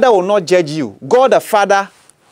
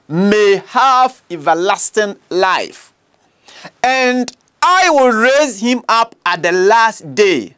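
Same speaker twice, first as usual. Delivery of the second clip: solemn scripture reading; slower than usual. Acted. Reading the words of Jesus.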